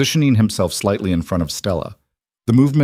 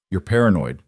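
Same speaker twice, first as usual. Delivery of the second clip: flat. Acted. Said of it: "Caleb said flatly".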